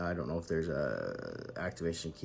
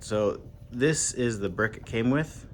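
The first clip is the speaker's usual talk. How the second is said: louder, slower, over the rotor noise; yelling over helicopter; 3 dB louder, slower than usual. Real, not acted. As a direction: raise your voice over a helicopter. Helicopter overhead, apologizes after.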